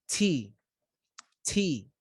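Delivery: T with a puff of air as in English; breathy English T for the Arabic learner. Shown as a demonstration. Teacher shows the aspirated English T. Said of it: "Notice when I say T".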